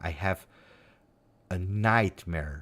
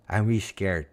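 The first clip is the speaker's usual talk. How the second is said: ordinary talk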